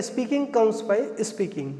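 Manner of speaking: very slow, each word laid out for learners; teacher dictating a proverb to the class, slowly; slow model sentence. Shown as a demonstration. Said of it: "यहाँ पे sentence बताया था मैंने".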